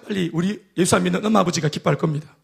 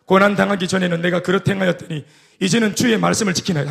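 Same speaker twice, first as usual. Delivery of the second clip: congregational reading; 3 semitones lower than usual. Real, not acted. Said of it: "시작".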